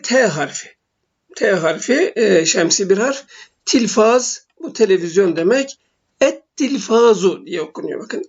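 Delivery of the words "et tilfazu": "Et tilfazu" with a held double T; no L in the article, double the T in "Et tilfazu"; silent lam, doubled T. Shown as a demonstration. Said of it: "Lem okunmuyor".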